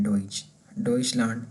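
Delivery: डॉइच, डॉइचलैंड with "oy", as in German; vowel order reversed. Shown as a demonstration. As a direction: model DOYCH, then the whole word डॉइचलैंड. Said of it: "इसमें हम यू की आवाज़". (डॉइच, डॉइचलैंड में "ऑइ" का German उच्चारण)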